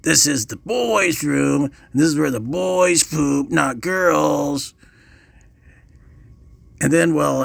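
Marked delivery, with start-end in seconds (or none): 0.0-4.7 slow, emphatic mock yell; drawn-out bully's lecture, half yelled; retold yell. Older bully in the boys' room, mock yelling. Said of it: "and yelled".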